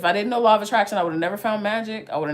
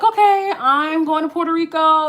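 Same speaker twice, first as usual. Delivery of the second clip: excited decision; 7 semitones higher, 5 dB louder than usual. Retold or imitated. Retelling own decision.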